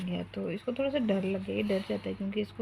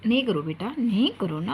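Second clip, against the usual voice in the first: firm telling-off; 5 dB louder than usual. Real, not acted. Scolding her son off camera.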